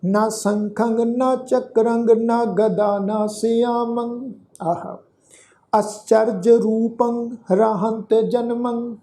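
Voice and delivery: slow, measured verse reading with held vowels; drawn-out devotional reading; scripture recitation. Shown as a demonstration. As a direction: recite the sacred verse slowly, stretching the endings.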